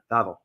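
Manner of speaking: Wawel said with an opening V sound; Polish W as V. Shown as a demonstration. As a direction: say Wawel as "Vavel". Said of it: "it's pronounced V because W in Polish".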